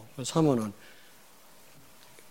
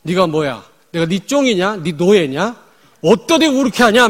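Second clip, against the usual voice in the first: higher, louder defiant retort; mock confrontation; 6 semitones higher, 10 dB louder than usual. Wife confronting pastor husband, acted defiance. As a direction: play the wife standing up to her husband. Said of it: "한번 대들어라 그랬어".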